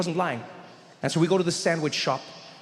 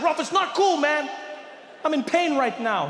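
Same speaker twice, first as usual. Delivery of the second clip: much higher, half-shouted complaint; upset protest; 10 semitones higher than usual. Retold or imitated.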